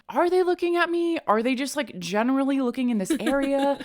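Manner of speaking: mock puzzled self-questioning; puzzled inner monologue. Acts out her puzzled thoughts at show.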